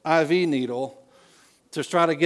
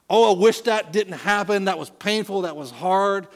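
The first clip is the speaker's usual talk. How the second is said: higher, louder rueful sigh of regret; mock lament; 6 semitones higher, 4 dB louder than usual. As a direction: voice the wish it hadn't happened, pained. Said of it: "a category for having a kind of".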